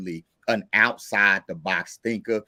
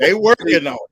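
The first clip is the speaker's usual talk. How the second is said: amused echo; 6 dB louder than usual. Real, not acted. Echoing guest with amusement.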